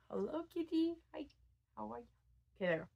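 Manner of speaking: high cooing hello to a cat; pet talk. Real, not acted. Vlogger pausing to greet the cat, pet talk. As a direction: greet a kitty in a high little voice.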